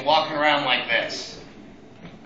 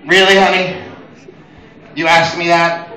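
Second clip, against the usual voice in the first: incredulous; 5 dB louder than usual. Retold or imitated. Exasperated reply to fiance.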